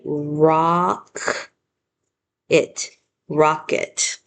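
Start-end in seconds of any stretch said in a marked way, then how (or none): 0.0-1.5 first syllable ROCK said alone, drawn out; "Rock" pulled out slowly on its own. Shown as a demonstration. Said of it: "I'm gonna read starting left to right".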